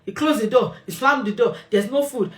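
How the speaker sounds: mock huffy complaints about the door and food; passive aggressive attitude. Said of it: "you're giving an attitude".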